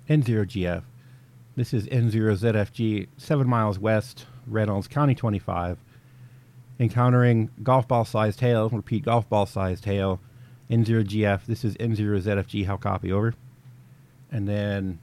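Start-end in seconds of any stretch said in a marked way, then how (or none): 0.1-5.8 crisp, formal radio call; radio transmission. Shown as a demonstration. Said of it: "communication might sound something like this". 6.8-10.2 louder, crisp radio report of hail; radio transmission. Shown as a demonstration. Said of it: "communication might sound something like this". 10.7-13.3 crisp, formal radio call; radio transmission. Shown as a demonstration. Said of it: "communication might sound something like this".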